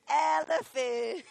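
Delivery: a loud drawn-out call; loud slow command. Shown as a demonstration. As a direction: stretch out "Elephant." loud and rising. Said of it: "What would be more low?".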